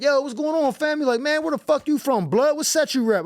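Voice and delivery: gang member voice. Retold or imitated. Gang member questions him in alley.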